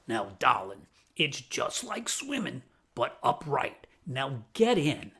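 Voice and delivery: lightly voiced tough lady, gruff but coaxing; a touch of a smoky older woman pushing a nervous kid; gravelly raspy voice. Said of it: "this gravelly, raspy voice".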